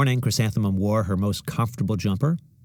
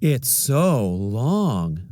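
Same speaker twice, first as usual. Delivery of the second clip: teasing; much slower than usual. Acted. Classmate mocking her name.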